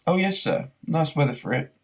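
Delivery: put-on a dignified old barman humouring him; lightly voiced old publican; polite barman.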